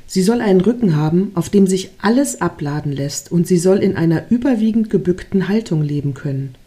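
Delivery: measured read-aloud storytelling; story narration. A narrator's reading. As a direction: read it like a gentle fable, pausing between phrases.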